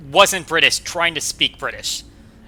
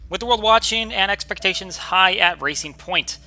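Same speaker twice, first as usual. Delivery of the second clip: higher, measured race commentary; commentary read-out; 5 semitones higher than usual. Acted. Streamer reading the rookie's race build-up, commentary read-out. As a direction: read it out like a race broadcast intro.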